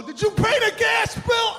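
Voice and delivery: high, loud, nagging question; nagging spouse. Retold or imitated. Husband mimicking a wife's nagging question mid-workout. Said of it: "I'm not gonna turn to you and go".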